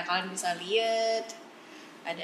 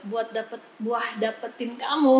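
laughing; 5 dB louder than usual. Real, not acted. Flirty punchline said laughing.

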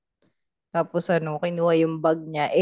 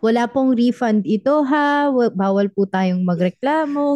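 polite robber; 4 semitones higher than usual. Retold or imitated. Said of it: "hold upin ka ng magalang na tao".

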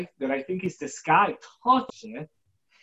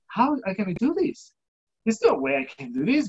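higher-pitched, mildly overwhelmed protest; retold self-doubt; 5 semitones higher than usual. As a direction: replay doubting yourself, pitched up. Retold self-doubt over a daunting task.

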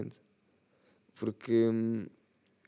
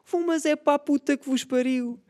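high, loud scornful yell; angry shout; 3 dB louder than usual. Acted. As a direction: spit the insult out at the band. Imagined patron insult.

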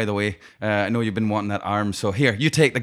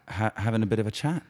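put-on hesitant echo in an Irish accent; slipping into Irish accent; 4 dB quieter than usual. Gang member echoing the Irishman, accent slipping into Irish. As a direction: let an Irish lilt creep in. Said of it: "noticing my accent slipping a bit".

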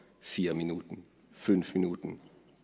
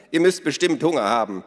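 hearty Minna; 6 semitones higher, 8 dB louder than usual. Acted. Minna's voice continues.

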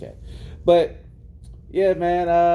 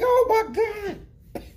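mock terrified. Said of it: "I'm like".

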